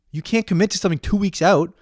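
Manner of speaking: high-pitched incredulous echo; furious disbelief. Retold or imitated. Ranting at the friend who can't commit, incredulous fury. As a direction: throw it back as an outraged question. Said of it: "I was so fucking furious".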